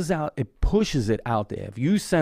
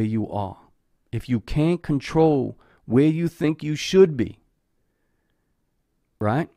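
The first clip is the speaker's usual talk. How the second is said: reflective reading. Acted. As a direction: read it like a gentle closing thought. Reads closing message.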